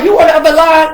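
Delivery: high, loud teasing question through laughter; giggling impression of a call; laughing mock question. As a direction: laugh while teasing him. Mocking brother on the phone.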